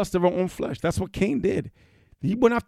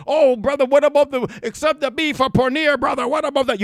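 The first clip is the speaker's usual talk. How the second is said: whiny mock churchgoer, higher; mock objector; 8 semitones higher than usual. Preacher mocking a remarried church member's excuse. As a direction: mimic the excuse-maker.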